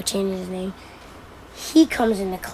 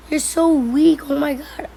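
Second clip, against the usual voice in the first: retold jeering; 5 semitones higher than usual. Classmates jeering in a retold quarrel.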